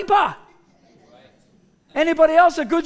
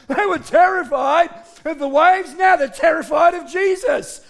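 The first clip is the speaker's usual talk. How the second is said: ordinary talk, nothing marked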